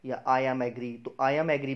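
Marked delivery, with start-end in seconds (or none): 0.2-1.0 "agree" said as AG-ree; louder mistaken "I am agree"; wrong version. Shown as a demonstration. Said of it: "भी गलत है". 1.2-1.7 "agree" as loud AG-ree; wrong version. Shown as a demonstration. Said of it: "भी गलत है".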